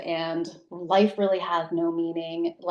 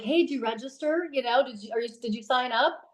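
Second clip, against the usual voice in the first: excited; 5 semitones higher than usual. Retold or imitated. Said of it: "I'm, like, all excited".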